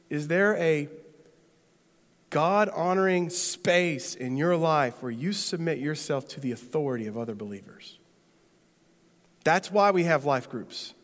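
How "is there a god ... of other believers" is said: gentle. Real, not acted. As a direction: ask it gently, voice sinking. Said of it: "let me ask you really gently".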